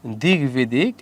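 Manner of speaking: slow "দিক বিদিক" as dig-bidik; g before sounded b. Shown as a demonstration. Teacher correcting to a g, "দিক বিদিক" slowly as dig-bidik. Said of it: "এখানে একটা গ হবে".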